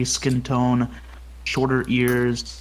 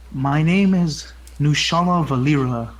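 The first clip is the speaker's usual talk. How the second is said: measured, serious self-introduction in character; lightly voiced serious elf; soft, serious voice. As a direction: reveal the true name with quiet seriousness. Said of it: "this softer, yet serious toned, uh, voice".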